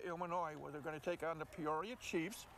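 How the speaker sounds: ordinary delivery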